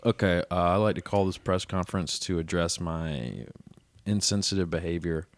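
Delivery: low, soft press-conference statement; mock-solemn, halting apology; public apology. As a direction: deliver a subdued formal statement. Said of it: "do I need to do a public apology?".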